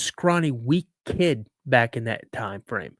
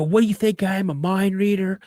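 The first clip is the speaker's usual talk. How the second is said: high-pitched, mock-indignant comeback; retold yelling back; 5 semitones higher than usual. Twelve-year-old son arguing with his dad, mock-indignant yell. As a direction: imitate a kid yelling back at a parent. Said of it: "I'm just yelling at my dad".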